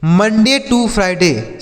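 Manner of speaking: drawn out word by word; slow dictation voice; very slow model phrase. Shown as a demonstration. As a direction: read it slowly for the class. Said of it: "teacher's slow model phrase".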